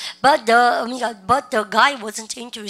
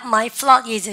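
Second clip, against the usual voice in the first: drill lead-in; 4 dB louder, much slower than usual. Shown as a demonstration. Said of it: "시작".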